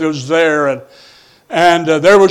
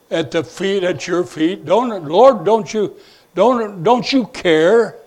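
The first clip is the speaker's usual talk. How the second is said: aggravated plea; 5 dB quieter than usual. Retold or imitated. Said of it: "she gets so aggravated, upset".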